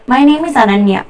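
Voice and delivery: "My name is Ananya" on one even pitch; no pitch change. Shown as a demonstration. Teacher giving an example of saying your name, flat intonation. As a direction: keep "My name is Ananya" level, without intonation. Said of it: "There's no change in the pitch".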